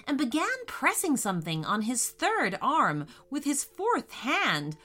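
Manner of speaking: gentle bedtime story voice; storytelling narration. A narrator's reading. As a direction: read it like a children's story. Reads story to children.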